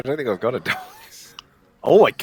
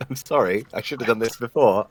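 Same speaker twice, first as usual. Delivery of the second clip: ordinary talk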